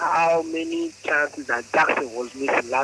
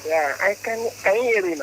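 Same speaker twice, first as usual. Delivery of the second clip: speaking up; 4 semitones higher than usual. Real, not acted. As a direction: raise the voice for a bad phone line. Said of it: "Yes, speak up".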